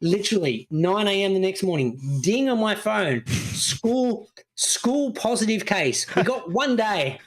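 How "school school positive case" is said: reading the alert. Retold or imitated. Reading phone notification.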